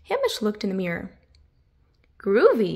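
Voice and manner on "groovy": loud beaming groovy. Acted. Hamish admiring his haircut in the mirror, beaming. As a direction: say it pleased with yourself. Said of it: "he beamed".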